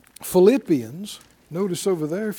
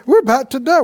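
higher, louder mock wail of doom; mock panicked cry; 5 semitones higher, 8 dB louder, faster than usual. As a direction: ham up the complainers' panic. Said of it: "If you're going".

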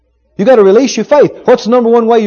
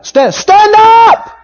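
loud voice; 11 semitones higher, 3 dB louder, much slower than usual. Retold or imitated. Paul in a loud voice ordering the man to stand. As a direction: stand up called out loud, higher and drawn out slow. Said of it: "said it with a loud voice".

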